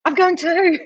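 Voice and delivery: high-pitched mock panic; retold freak-out. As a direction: squeak out a comic retold bail-out. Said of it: "I'm freaking out and going".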